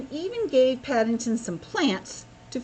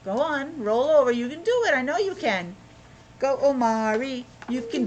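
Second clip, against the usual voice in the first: encouraging; 3 semitones higher than usual. Real, not acted. Cheering child on to roll.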